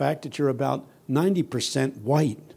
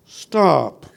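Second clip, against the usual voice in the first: louder, drawn-out heckle; mock yell; 6 dB louder than usual. White congregation to the preacher, mock yell. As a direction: imitate a congregation calling a halt. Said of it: "They yell".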